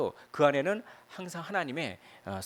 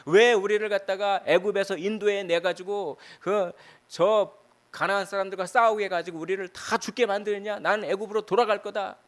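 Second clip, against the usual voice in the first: complaining Israelites; 7 semitones higher, 6 dB louder than usual. Retold or imitated. Israelites grumbling against God over the giants, mock angry complaint. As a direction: voice the grumbling crowd's anger.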